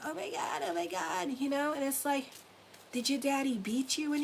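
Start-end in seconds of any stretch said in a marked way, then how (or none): 0.0-1.3 mock traumatized person. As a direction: imitate someone being overdramatic. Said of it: "they act like".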